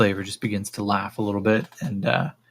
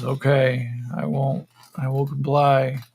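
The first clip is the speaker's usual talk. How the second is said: higher, dazed voice giving in; loose, higher-pitched character voice; meek compliance; 3 semitones higher than usual. Acted. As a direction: play a spaced-out captive agreeing. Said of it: "And he just goes".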